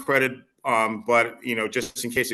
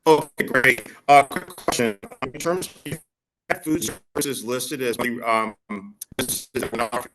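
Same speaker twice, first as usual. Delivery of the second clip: choppy, static-filled connection; breaking up; 4 dB louder, slower than usual. Real, not acted. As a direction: voice cutting in and out. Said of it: "you're breaking up every other sentence".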